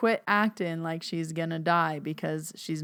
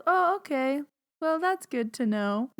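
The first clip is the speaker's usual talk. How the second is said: high sweet grandma voice; high content old lady voice; 8 semitones higher than usual. Retold or imitated. Grandma satisfied, done.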